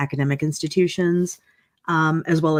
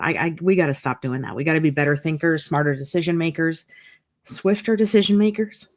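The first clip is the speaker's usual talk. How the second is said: out of breath. Real, not acted. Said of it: "I'm catching my breath a little bit".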